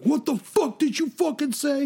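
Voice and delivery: high-pitched outraged retort; mock confrontational outburst; imitated angry challenge. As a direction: fire back like an outraged buddy. Buddy's angry retort, retold.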